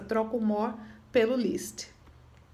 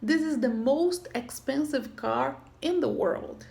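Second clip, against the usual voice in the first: slow model sentence; slower than usual. Shown as a demonstration.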